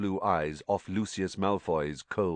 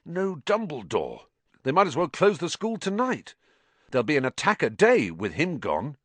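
raised, urgent, hoarse worry; 9 semitones higher, 3 dB louder than usual. A narrator's reading. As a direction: fret hoarsely at a higher pitch. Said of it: "he said hoarsely".

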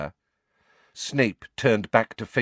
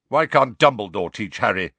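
louder, pushy challenge; aggressive; 7 dB louder than usual. Acted. Sirius confronting Snape, aggressive and loud. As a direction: demand it, bristling at Snape. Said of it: "asked Sirius aggressively".

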